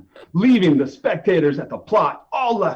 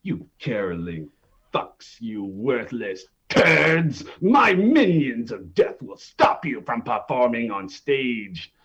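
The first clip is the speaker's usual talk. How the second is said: menacing villain king; 5 semitones lower than usual. Acted. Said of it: "to share some words".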